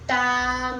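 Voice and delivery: "Tamanhinho" stretched out in even, held syllables. Shown as a demonstration. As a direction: draw out each syllable of "Tamanhinho". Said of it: "vamos separar". ("Tamanhinho" pronunciado sílaba por sílaba)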